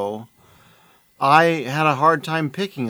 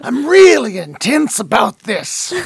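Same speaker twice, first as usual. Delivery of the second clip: higher, louder straining wrestler voice; intense wrestler; 8 semitones higher, 5 dB louder than usual. Acted. Podcaster showing the tense-muscle wrestler voice.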